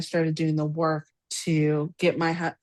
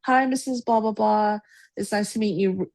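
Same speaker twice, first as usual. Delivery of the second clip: imitated polite hello, starting high; mild mock-polite introduction; polite greeting; 4 semitones higher than usual. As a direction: greet lightly and courteously, pitch easing down. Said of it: "so polite, says, you know".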